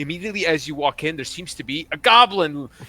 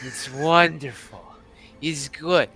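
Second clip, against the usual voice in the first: jovial goblin lord; 4 semitones higher, 3 dB louder than usual. Acted. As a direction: hail them loudly as a goblin host. Game master plays goblin.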